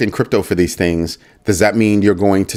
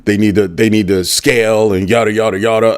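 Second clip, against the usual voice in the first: mocking the creator. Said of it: "the creator was talking about".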